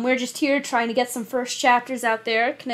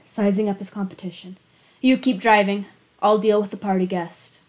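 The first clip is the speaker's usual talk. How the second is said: steady, even reading of a thriller chapter; story narration. A narrator's reading. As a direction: read it like an audiobook narrator. Reads a thriller chapter aloud.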